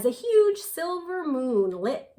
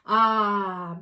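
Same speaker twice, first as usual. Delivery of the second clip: dreamy breath; 5 dB louder than usual. Acted. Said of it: "breathed the blue owl dreamily".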